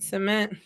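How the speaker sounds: soft "cement." as suh-MENT; suh-MENT pronunciation. Retold or imitated. Counselor compares both words, soft "cement." as suh-MENT. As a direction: try "cement." with a reduced first vowel. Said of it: "You mean cement?".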